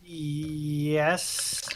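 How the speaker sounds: ordinary talk, nothing marked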